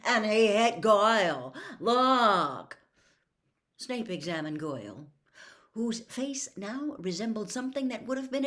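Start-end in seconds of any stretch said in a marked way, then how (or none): 0.1-2.8 loud indignant protest; indignant shout. A narrator's reading. Harry pointing Snape to Goyle, indignant shout. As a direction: demand he look.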